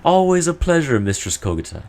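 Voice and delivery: confident re-read. Shown as a demonstration. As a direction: greet her grandly now that you know the name. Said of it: "Yeah, I'm gonna say it like that".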